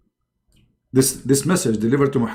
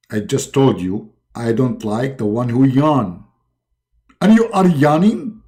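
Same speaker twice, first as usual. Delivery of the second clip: stern Allah voice. Acted. God scolding Muhammad.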